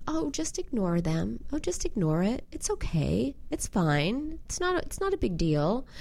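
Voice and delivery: nicely dismissive. Retold or imitated. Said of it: "be nicely dismissive, which would sound like".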